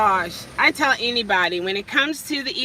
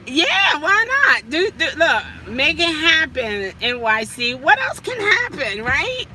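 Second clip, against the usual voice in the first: excited; 4 semitones higher, 5 dB louder than usual. Real, not acted. Hyping herself up.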